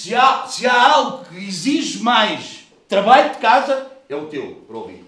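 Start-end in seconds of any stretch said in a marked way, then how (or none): 0.0-3.9 loud, slow, hammered home; preaching shout. Real, not acted. Preacher shouting to the congregation, loud and slow. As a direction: drive the point home, full voice.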